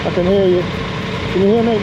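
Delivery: calling out. Real, not acted. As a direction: call out over the headset. Calling over the headset.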